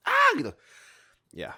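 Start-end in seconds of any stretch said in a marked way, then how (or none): 0.1-0.3 manly scream. Retold or imitated. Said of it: "teriakannya paling jantan".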